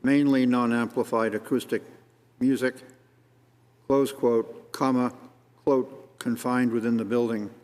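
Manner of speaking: dictating punctuation aloud, measured and deliberate. Shown as a demonstration. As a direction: spell out each quote mark for the record. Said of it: "So we have to say specifically".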